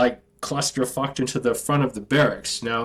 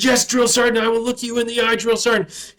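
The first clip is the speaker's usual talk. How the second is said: shouted recruit reply; 7 semitones higher than usual. Retold or imitated. Recruit shouting back at his drill sergeant. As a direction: yell it out at attention.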